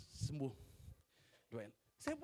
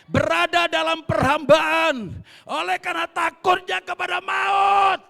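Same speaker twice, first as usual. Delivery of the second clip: slow, shouted sermon climax, much higher and louder; full-force preaching; 10 semitones higher, 21 dB louder, much slower than usual. Acted. Preacher proclaims freedom from fear to congregation, shouting slowly. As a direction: thunder each word out to the church.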